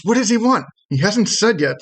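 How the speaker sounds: high little questioning voice; tiny creature calling out. Acted. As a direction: ask and answer in a small, high voice. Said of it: "the second one calls out".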